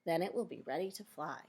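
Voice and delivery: clear, measured read-aloud for a class; reading to children. Acted. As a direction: read the picture book out to the kids. Teacher reads book to class.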